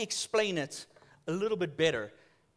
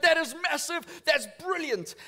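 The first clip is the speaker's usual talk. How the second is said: louder, higher, wowed; impressed customer; amazed; 7 semitones higher, 4 dB louder than usual. Retold or imitated. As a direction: gush at the size.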